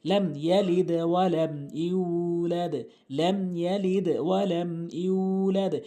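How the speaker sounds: slow, measured Arabic recitation with long held vowels; Quran recitation. Shown as a demonstration. Teacher reciting the sura correctly for learners, slow recitation. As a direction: recite slowly, drawing out each long syllable.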